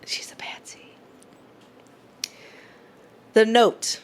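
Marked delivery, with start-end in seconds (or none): 0.1-0.9 breathy whisper of the pun; whispered echo. Real, not acted. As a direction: say it under your breath, conspiratorially. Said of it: "Fucking patsy".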